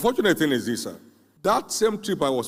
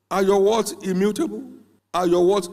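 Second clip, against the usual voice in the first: louder, hammering the question home; louder repeated challenge; 7 semitones higher, 5 dB louder than usual. Retold or imitated. Preacher pressing the young man again, building louder. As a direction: push harder each time.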